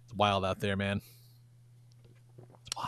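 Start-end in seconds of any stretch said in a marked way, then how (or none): 2.4-2.9 whispered aside. Real, not acted. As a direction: breathe it unvoiced. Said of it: "whispered repeat".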